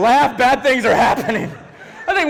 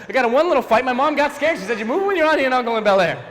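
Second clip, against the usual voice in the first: higher, quicker run-through of lyrics; rattled-off recital; 5 semitones higher, much faster than usual. Retold or imitated. Uncle finishes the borrowed story for niece, rattled off faster. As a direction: rush the rhyme to its end. Story turns into rushed theme rap.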